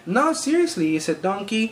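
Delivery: fake Mexican accent. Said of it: "my accent is in fact fake".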